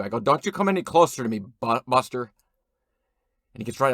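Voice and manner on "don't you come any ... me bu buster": louder, fast and rushed threat; loud warning. Acted. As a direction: snap the warning out faster and louder. Repeated warning to stranger.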